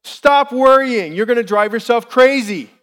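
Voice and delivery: loud, high outburst, first words drawn out; frustrated. Retold or imitated. Dad answering his crying daughter in the car, frustrated and loud. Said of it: "I was frustrated with my daughter".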